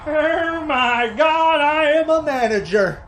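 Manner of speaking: high, slow, drawn-out delight; excited realization. Real, not acted. Gamer reacting to becoming a manager, excited and high. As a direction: gasp it out like a promotion.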